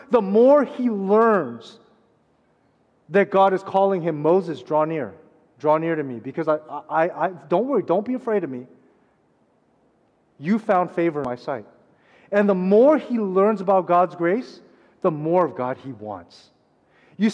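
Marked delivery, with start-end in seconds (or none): 4.2-11.7 tender voice of God. Acted. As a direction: gently call him closer.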